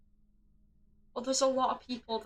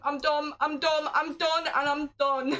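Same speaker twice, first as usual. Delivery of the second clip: exasperated gamer losing it; frantic despair; 3 semitones higher, 4 dB louder than usual. Real, not acted. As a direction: rattle off I'm done like you're melting down. Panics over the wrong answer.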